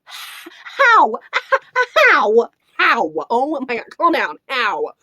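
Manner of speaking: loud, exclaimed disbelief; incredulous outburst. Real, not acted. Reviewer answers the hype, loud incredulous protest. Disbelief at Lord of the Rings comparison.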